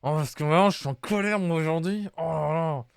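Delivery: spoken through gritted teeth, annoyed. Pretend. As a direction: clench the jaw and grumble. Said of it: "je vais jouer toutes mes répliques avec les dents serrées".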